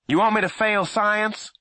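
loud high challenge; arguing back. A narrator's reading. Boy arguing with his mother downstairs, loud. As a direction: throw the guilt at her.

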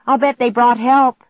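high, loud, joyful shout; excited shout. A narrator's reading. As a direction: shout the good news out. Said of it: "Clark shouted".

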